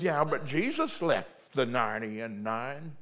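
lightly voiced scolding member; a hint of a pious rebuke; mock church member. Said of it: "He goes".

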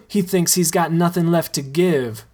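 laughing through the words; amused, teasing through a laugh; chuckling fondly at his self-pity; with a smile. Acted. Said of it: "says Rome with a smile".

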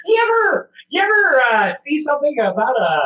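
very high-pitched mimicking voice; Nick. Co-host reading the guest's midnight message, very high impression. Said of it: "gonna do it in the Nick voice".

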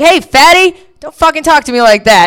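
high, loud sassy retort; mock angry comeback. Comic snapping back at the rude customer in a high loud voice. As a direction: fire back at him, hammed up. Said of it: "I was like".

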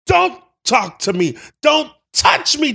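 high hysterical screaming; screaming crying fan. Acted. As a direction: shriek it through sobs. Reenacting emotional movie scene.

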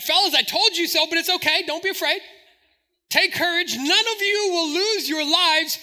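Paul. Retold or imitated. Paul steadies frightened shipmates, high and insistent. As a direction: imitate a man boldly reassuring his crew. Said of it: "Paul gets up, like".

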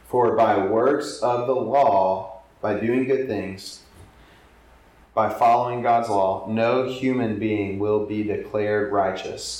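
slow, deliberate reading with glosses; slow scripture reading. Acted. Preacher rereads verse slowly to congregation, deliberate. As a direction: lay each phrase down slowly.

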